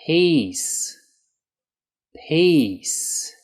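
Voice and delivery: "Peace" with a long stretched ee; exaggerated long E. Shown as a demonstration. Teacher modelling the long ee sound. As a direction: hold the ee in "Peace". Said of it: "exaggerate this long E sound".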